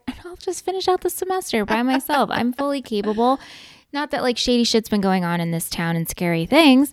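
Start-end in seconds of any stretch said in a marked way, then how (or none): 0.1-3.4 higher-pitched mock reassurance to a parent; mock self-assured teen. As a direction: play a teen insisting they can manage alone. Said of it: "and you're like".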